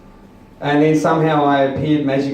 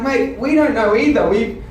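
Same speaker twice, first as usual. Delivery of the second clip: mimicking the council guys; 8 semitones higher than usual. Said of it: "They're like".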